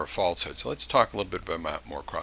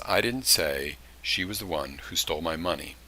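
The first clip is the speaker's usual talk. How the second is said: "didn't" leaned on, the rest level; stress on didn't; 3 semitones lower, 4 dB quieter than usual. Shown as a demonstration. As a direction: lean on "didn't" as the demo. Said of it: "I've got no inflection on any part of that sentence".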